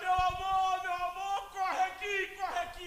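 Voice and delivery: mock shouting. Retelling how a father shouted for his wife: imitating someone shouting. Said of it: "Ele começou a gritar".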